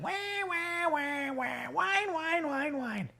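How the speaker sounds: high, soft sing-song wailing; mock whining. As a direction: imitate whiners with a thin high whine. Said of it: "They were whining".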